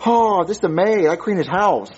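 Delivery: badly faked Hispanic maid accent. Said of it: "what accent was that supposed to be".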